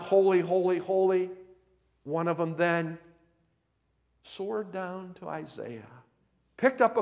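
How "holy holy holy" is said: high, loud retold acclamation; crying out. Seraphims crying out as they fly, raised imitating voice. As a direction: imitate a cry of worship in a raised preaching voice. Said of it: "the crying out".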